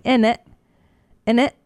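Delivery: lightly imitated Cockney accent. Co-host echoing Londoner talk, light Cockney accent. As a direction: try out a Cockney tag question.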